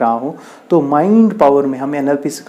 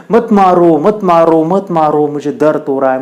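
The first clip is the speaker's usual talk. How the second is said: raised, insistent acted plea; a touch of pain, pitched up then easing; pleading stone. Stone begs the sculptor not to strike, pleading.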